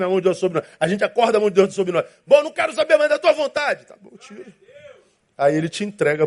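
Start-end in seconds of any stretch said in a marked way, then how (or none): 2.3-3.8 high, fed-up mock voice, pitched up; a hammed-up huffy believer telling God to leave; indignant believer. Voicing a person rejecting God. 3.8-4.5 barely-there unvoiced whisper; God whispering a resigned okay; whispered reply. God quietly letting go.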